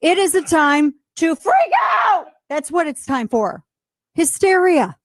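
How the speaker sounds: high, sarcastic mock panic; sarcastic mock freak-out; mock hysteria. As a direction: ham up the panic. Mocking the health officials.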